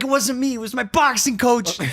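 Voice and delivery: high, joking denial; mock defensive. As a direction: pass the blame playfully. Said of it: "I'm like".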